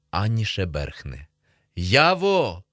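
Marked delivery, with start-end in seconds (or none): 1.7-2.6 raised, higher call; somewhat louder call. A narrator's reading. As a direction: call out a bit louder for a friend. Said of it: "кричу я трохи голосніше".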